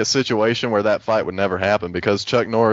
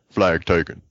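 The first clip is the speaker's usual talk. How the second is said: lightly imitated character announcer, twisted vowels; a hint of a character voice on the call; Jerome; 3 semitones lower than usual. Swapping in a new game announcer, lightly put-on character voice. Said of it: "it's just Jerome like".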